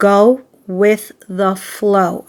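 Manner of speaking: slow, deliberate, measured, each word spaced out. Reader giving Aries their number one advice so listeners remember, speaking slowly. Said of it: "I'm saying that slowly so you guys remember".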